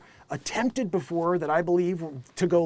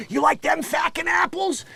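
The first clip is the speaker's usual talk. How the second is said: Boston attitude; 9 semitones higher than usual. Retold or imitated. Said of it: "that Boston attitude".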